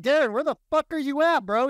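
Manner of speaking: retelling how he blew up at the no-show agent; exasperated yell. Retold or imitated. To the realtor who skipped showings, a high exasperated mock yell. Retold yelling at absent realtor.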